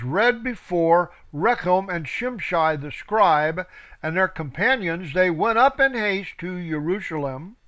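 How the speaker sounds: scripture reading. Acted. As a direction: read it out like a preacher. Reads scripture aloud.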